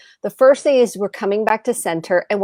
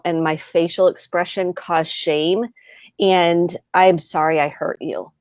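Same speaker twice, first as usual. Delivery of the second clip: sincere apology. Shown as a demonstration. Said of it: "That's an apology".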